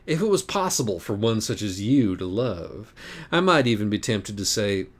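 high, sly, mocking cat; taunting cat voice. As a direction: purr the confession like a smug cat. The cat needles Acorn.

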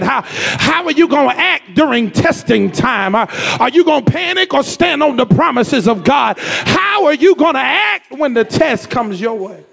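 fervent preacher, pressing the questions; preaching at full force. Acted. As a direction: push each question at the congregation. Preacher drives home the point.

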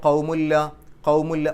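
ഖൗമുല്ല with the n fully merged into a doubled l; ഖൗമുല്ല as qaumu plus a doubled l; merged without nasal. Shown as a demonstration. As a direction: say ഖൗമുല്ല, no hum on the n. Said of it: "ഖൗമുൻ എന്ന് പറയാതെ ഖൗമു എന്ന് പറയാം".

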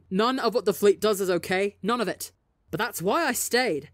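loud, cutting him off; yelling. Acted. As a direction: drown him out. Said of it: "Tommy yells".

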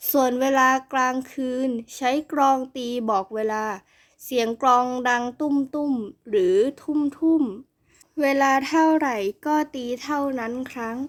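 only a touch gruffer, unhurried like a wise scholar; gruff grown-up voice. Acted. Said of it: "ทำเสียงห้าวและพูด ช้าๆ มีจังหวะเหมือนผู้ใหญ่". (เสียงห้าว พูดช้าๆ มีจังหวะเหมือนผู้ใหญ่)

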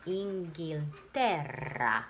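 Inghilterra slowed, stress on the te syllable. Shown as a demonstration. Teacher shows the class the accent in Inghilterra, stressing te. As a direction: lean on te in Inghilterra, very slowly. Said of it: "の上がアクセント。".

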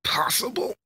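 high, rising gasp of disbelief. Acted. Fighter faced with the impossible, high-pitched disbelief. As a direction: let the pitch climb in shock.

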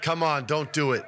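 ordinary delivery

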